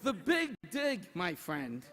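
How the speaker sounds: building comic emphasis over laughter; mock grand punchline. Real, not acted. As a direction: sell the tiny route as epic. Punchline comparison to the crowd.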